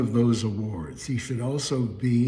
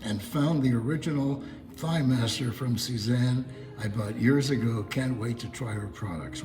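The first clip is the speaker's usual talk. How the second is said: lightly put-on German accent reading a caller's note; hint of a German accent, reading the message aloud. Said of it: "I love doing a German accent".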